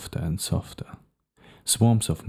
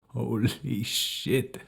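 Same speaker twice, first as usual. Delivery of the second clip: laughing roar; 4 semitones higher, 4 dB quieter, much slower than usual. A narrator's reading. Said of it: "he roars".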